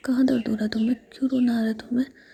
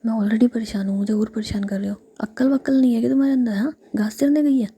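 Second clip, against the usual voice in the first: whispered scolding that rises and gets louder; angry scolding; 4 dB louder than usual. Acted. Jiya scolds the two pranksters in a whispered rage. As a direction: tell them off like a fed-up older sister. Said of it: "गुस्से से".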